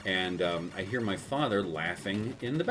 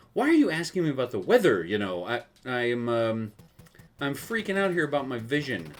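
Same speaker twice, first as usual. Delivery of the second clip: higher, louder, fast exasperated whine; 5 semitones higher, 5 dB louder than usual. Retold or imitated. Son annoyed dad keeps asking about weather, exasperated. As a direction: snap back, fed up and scared. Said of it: "I said".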